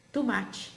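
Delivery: "tomate" said "tumátchi", as in speech; pronúncia falada. Shown as a demonstration. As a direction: say "tomate" with "tu-" and a "tchi" ending. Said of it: "nós falamos, por exemplo". ("tomate" falado como "tumátchi")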